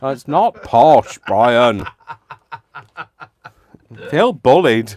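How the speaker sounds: hammed-up protest at the teasing; mock indignation. Teased as posh, he protests in loud mock outrage.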